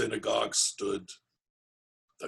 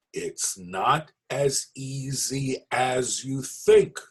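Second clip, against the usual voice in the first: warning; 3 semitones higher, much slower than usual. Acted. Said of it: "the rabbi warned".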